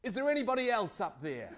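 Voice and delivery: high, loud cry, laughing through it; desperate call. Acted. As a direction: call up again, hopeful of anyone else.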